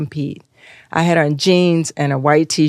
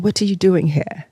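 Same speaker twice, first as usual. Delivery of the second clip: British woman; 2 semitones higher than usual. Retold or imitated. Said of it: "there was this British woman".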